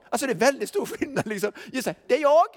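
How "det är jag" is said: light, higher, casual "det är jag", knocking at the door; lightly voiced buddy at the door; a hint of a chummy knock-knock; mock casual hello. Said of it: "Det var ingenting sånt".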